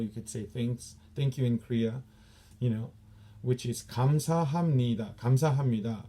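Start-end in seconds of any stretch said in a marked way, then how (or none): 3.8-6.0 감사합니다 with every syllable spaced out; slow. Shown as a demonstration. Instructor showing the wrong, slow way to thank. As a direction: spell out 감사합니다 slowly, one sound at a time. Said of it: "we don't say it like that slow".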